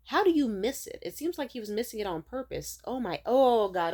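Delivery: loud, worked-up frustration; getting mad. Real, not acted. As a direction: let the anger build as you recount it. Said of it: "I'm getting mad just talking about this".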